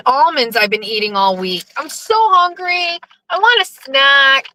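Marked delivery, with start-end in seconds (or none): 1.8-4.5 whiny. Real, not acted. Hungry driver complaining to listeners.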